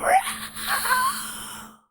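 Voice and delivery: a mock dragon roar, only whispered; low whispered roar like a dragon; whispered scream. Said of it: "and you scream".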